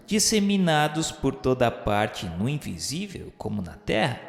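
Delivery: usual speaking voice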